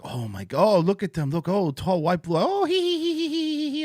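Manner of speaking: put-on high squealing giggles over a tall white boy; giggling Asian fans. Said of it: "They're like".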